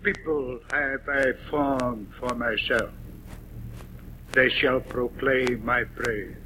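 weight the first word of each line; stress on people. Shown as a demonstration. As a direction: lean on "people" then on "They". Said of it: "Let's try that".

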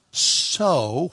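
"so" held long on its own; lingering, emphatic "so"; stress on SO. Shown as a demonstration. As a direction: stretch the single word "so". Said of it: "put the emphasis of the verse".

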